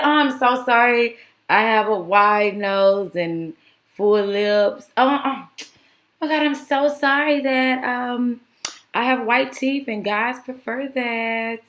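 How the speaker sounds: a mild whiny fake-sorry voice; a hint of mock crying; mocking fake apology. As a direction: lightly parody a teary apology. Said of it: "cried fake tears, like those Karen tears".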